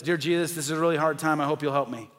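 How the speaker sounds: a mild, routine little prayer; half-hearted churchy prayer; flat dutiful prayer. Shown as a demonstration. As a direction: pray it by rote, no feeling. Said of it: "you pray like this".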